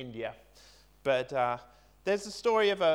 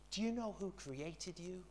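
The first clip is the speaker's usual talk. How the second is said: gentle question; 2 semitones higher, 8 dB quieter than usual. Retold or imitated. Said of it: "in that gentle voice in a question".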